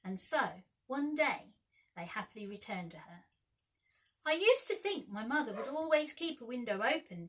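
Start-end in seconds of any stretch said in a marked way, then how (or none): 4.2-7.3 cross. A narrator's reading. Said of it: "Peter told them crossly".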